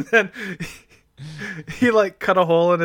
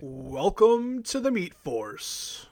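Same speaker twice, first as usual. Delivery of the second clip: slow, deep announcer welcome; deeper voice; 3 semitones higher, 4 dB quieter, much slower than usual. Pretend. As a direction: drop the voice low and slow it down. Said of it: "I like how you're doing it in a deeper voice".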